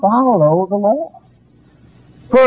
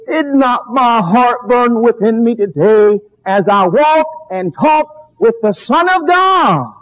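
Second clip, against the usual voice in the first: fervent preaching. Acted. Preacher voicing a believer who walked with God, fervent preaching. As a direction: build to a ringing, drawn-out finish.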